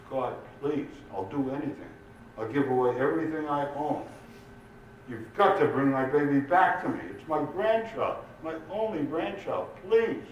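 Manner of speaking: high, urgent begging that climbs; acted tearless desperate prayer, ending high; desperate pleading. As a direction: plead with God for the child, voice rising. Grandmother begging God in a joke.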